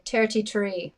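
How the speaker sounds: "Terty tree" as Irish thirty-three; hard t's in an Irish "Terty tree"; Irish accent. Shown as a demonstration. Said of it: "I can do Irish".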